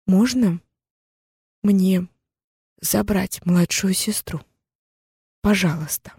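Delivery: slow, hesitant asking; timid plea. Acted. Frightened girl timidly begging the captor. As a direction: ask timidly, pausing.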